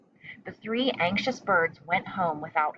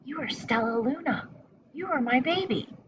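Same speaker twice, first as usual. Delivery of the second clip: tender whisper; 7 semitones higher than usual. A narrator's reading. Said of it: "she whispered".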